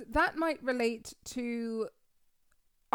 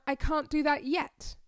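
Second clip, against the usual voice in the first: hopeful; 2 semitones higher than usual. Shown as a demonstration. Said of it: "I found my voice changed, my intonation changed, I felt more hopeful".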